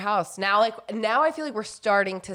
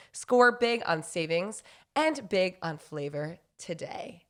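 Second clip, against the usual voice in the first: upbeat podcast sponsor read. Acted. Wife reads the Daily Harvest ad to listeners, upbeat. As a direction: sell it like a host ad.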